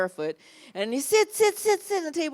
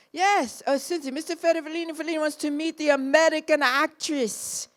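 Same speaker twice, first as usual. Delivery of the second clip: higher, fast formal introduction; announcer assistant; 6 semitones higher than usual. Retold or imitated. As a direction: rattle off the introduction.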